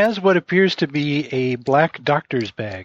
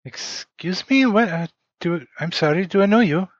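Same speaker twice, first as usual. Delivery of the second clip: put-on German accent; 7 semitones higher than usual. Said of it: "she is speaking in a German accent".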